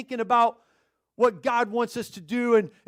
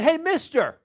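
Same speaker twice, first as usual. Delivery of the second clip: higher-pitched parrot call; talking parrot; 7 semitones higher, 3 dB louder, slower than usual. Acted. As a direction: call out like a pet-store parrot. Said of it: "The bird said".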